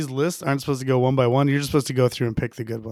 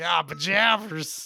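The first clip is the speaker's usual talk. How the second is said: put-on yell of pain, pitched higher; 4 semitones higher than usual. Acting out someone nailed to a cross yelling the word: imitating Jesus yelling in pain. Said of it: "Do you think he yelled bejabbers?".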